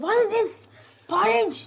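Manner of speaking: high, loud disbelieving outburst; the mother-in-law discovering the overcooked rice, shocked and loud. Retold or imitated. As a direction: recoil at the mushy rice. Mother-in-law finding ruined rice.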